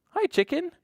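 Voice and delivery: very high-pitched little hello; cutesy greeting. Pretend. Storyteller greeting the felt dog, cutesy greeting. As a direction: greet a toy in a tiny high voice. Greeting a toy animal for children.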